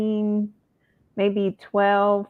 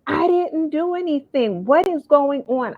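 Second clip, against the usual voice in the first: retold bewilderment; 8 semitones higher than usual. Retold husband baffled and defensive.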